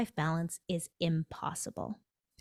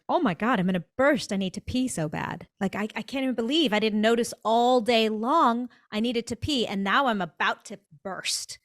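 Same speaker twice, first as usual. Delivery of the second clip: mock panic; 3 semitones higher, 4 dB louder than usual. Desperate to pee after work.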